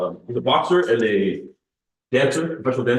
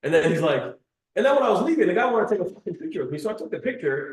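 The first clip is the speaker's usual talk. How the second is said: raised pitch, heated imitation; angry Andrew Tate; 6 semitones higher than usual. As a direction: play up his angry rant. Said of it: "he's, like, really angry in the video".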